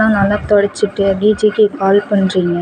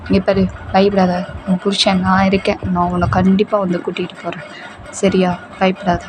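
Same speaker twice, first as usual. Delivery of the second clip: reassuring. Acted. Boyfriend calms his crying girlfriend.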